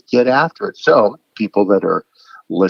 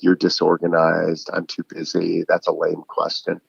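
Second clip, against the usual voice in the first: cold dismissal; 3 semitones lower, 4 dB quieter than usual. Retold or imitated. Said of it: "instead of saying".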